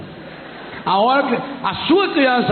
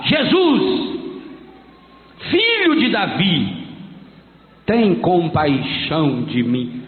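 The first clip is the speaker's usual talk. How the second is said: slow, falling plea that sinks lower; pleading cry; 4 semitones lower, slower than usual. Retold or imitated. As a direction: beg for mercy, drawn out. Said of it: "começou a gritar".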